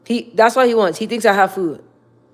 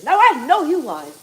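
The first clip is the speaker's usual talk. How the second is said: sassy catchphrase; 7 semitones higher than usual. Retold or imitated. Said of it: "that's my favorite thing to say".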